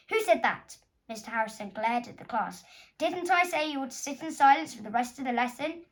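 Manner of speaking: loud stern teacher. Acted. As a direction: scold the class sharply. Teacher scolds class.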